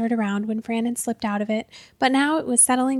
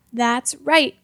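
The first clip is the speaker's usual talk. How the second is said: louder, growled agreement; 6 dB louder than usual. Acted. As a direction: snap it out like a cranky boss. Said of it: "growled Hackenpfeffer".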